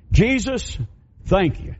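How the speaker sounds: mimicking a humble man bursting into prayer; Roger's prayer. Preacher imitating Roger praying over the offering, pitched high.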